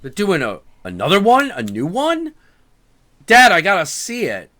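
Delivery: lightly voiced eager child begging dad; eager kid. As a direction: beg your dad like an excited boy. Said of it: "and I'm like".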